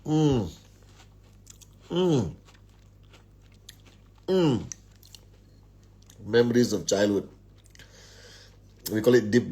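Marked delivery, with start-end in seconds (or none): 0.0-4.6 savouring hum. Real, not acted. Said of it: "this is how we eat biscuits".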